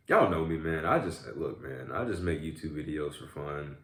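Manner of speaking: ordinary delivery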